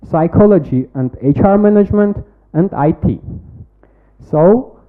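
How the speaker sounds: rehearsed, projected pitch-deck delivery; confident startup pitch read to a jury; pitch presentation. Acted. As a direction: sell the product to the judges like a memorised pitch.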